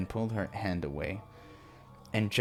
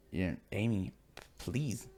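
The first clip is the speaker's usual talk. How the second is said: crying plea; 4 dB quieter than usual. Acted. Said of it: "You're crying, sobbing like a sad little girl".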